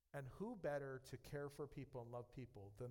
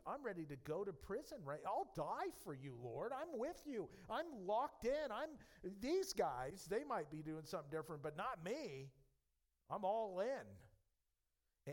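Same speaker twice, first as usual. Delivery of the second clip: higher, louder all-in declaration, slowing at the end; fervent vow; 6 semitones higher, 6 dB louder than usual. Acted. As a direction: swear loyalty at full voice. Peter's fervent vow acted out.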